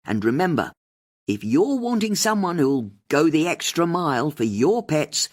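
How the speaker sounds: rally the listeners; host appealing to listeners on air; radio host. A narrator's reading.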